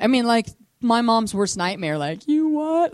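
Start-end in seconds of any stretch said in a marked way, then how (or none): 2.3-2.9 high, loud shocked mom; imitating a horrified mother; freaking out. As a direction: blurt it out in disbelief, pitched way up. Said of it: "Like, freaking out".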